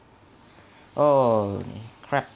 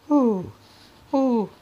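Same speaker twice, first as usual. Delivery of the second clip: nervous whoop; 13 semitones higher, 6 dB louder than usual. Real, not acted. Psyching himself up while scared.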